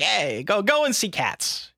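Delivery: slow, oily sales pitch voice; smarmy voice. Pretend. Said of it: "smarmy voice".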